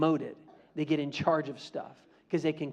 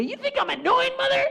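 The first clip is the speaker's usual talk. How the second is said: high, sweet fake-innocent question; innocent little brother; 6 dB louder than usual. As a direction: play the innocent little boy.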